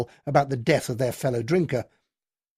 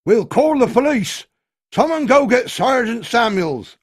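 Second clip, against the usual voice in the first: loud, higher call across the bar; shouted threat; 9 semitones higher, 8 dB louder than usual. A narrator's reading. Villager in the crowd shouts a threat, loud. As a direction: yell for the police. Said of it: "Then someone shouted".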